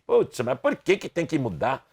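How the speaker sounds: fast, exasperated grumble; mock annoyed student; complaining Brazilian. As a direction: whine like a fed-up student. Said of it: "o brasileiro comum diz assim".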